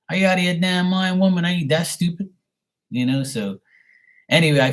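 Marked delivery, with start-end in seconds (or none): 0.1-2.3 higher and louder, mock outraged telling-off; incredulous scolding. To the scammer who asked for a card: retold incredulous scolding. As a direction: blast her in disbelief.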